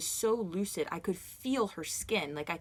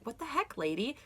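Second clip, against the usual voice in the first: incredulous; 6 semitones higher than usual. Retold or imitated. Confronting malicious lady.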